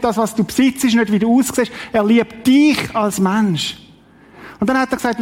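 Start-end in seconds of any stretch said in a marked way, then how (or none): 1.9-3.8 slow down and hit "dich" hard; stress on dich. Real, not acted. Preacher assures listeners God loves the person, stressing "dich". Contrast: not achievement, but you.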